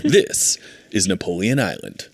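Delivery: mock announcer landing the show title; lightly hammed-up TV voice-over; reality show narrator. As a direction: round off the promo with a weighty title reveal.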